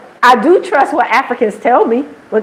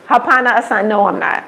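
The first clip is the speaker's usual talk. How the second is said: gently retold polite no, tapering softer; nice, polite refusal; 2 semitones lower, 3 dB quieter than usual. Speaker kindly corrects people calling her Mzungu, said nicely. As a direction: turn them down nicely, without force. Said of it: "I try to say it nice".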